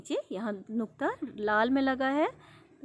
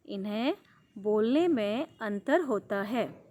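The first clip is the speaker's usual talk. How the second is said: slow, careful textbook reading; reading aloud; slower than usual. Acted. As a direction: read the instructions to the class slowly.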